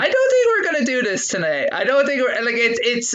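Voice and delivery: high, squirming refusal; embarrassed refusal. Real, not acted. Begged to perform, embarrassed refusal.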